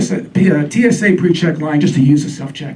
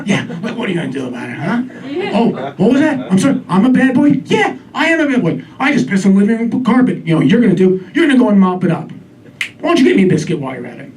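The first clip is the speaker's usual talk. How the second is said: cocky dog; 3 semitones higher, faster than usual. Acted. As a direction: taunt your owner like a cheeky old dog. Voicing the defiant dog.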